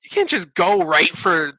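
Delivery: high, scolding mock voice; high-pitched mock lecture.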